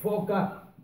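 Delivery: "foca" with a long hissed f; stressed F sound. Shown as a demonstration. Teacher spelling out a word, drawn-out f in "foca". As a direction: stretch the f of "foca". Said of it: "con el fonema de foca".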